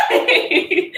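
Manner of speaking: high loud squealing laughter. Real, not acted. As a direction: shriek with laughter as she lunges. Dog chases, she squeals.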